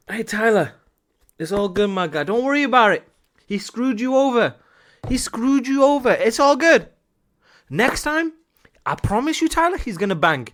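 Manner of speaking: high-pitched, coaxing reassurance; acted consoling. Coach pretending to comfort young Tyler, high and reassuring. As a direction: comfort him like a kid, pitch lifted.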